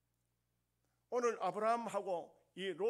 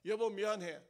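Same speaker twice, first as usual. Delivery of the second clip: demo apology; 5 dB louder than usual. Shown as a demonstration. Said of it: "여서라도 한번 해봅시다".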